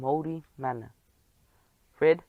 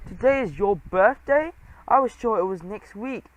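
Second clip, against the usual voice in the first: flustered surprise; 6 semitones higher, 4 dB louder than usual. Acted. Geronimo flustered by Trap.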